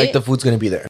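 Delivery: talking through hiccups; hiccuping. Real, not acted. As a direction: hiccups breaking the words. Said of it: "Don't laugh at my hiccups".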